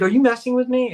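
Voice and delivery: mock indignation, pitched well up; retold incredulous challenge. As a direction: imitate someone suspecting a prank.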